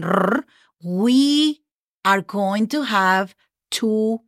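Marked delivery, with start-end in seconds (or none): 0.0-0.4 R as a strong trill; a rattling rolled R; hard R sound. Shown as a demonstration. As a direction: roll the R hard. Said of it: "hard sound again".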